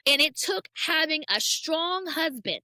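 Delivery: pushing through the words while trying not to cry; fighting tears. Real, not acted. Telling the host about her husband, on the edge of tears. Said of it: "oh, I'm trying not to cry".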